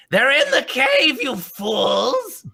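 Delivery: high, loud gloating yell; taunting shout. Acted. Villain shouting back at the party while running off. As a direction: crow it back at them as you flee. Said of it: "And he's like".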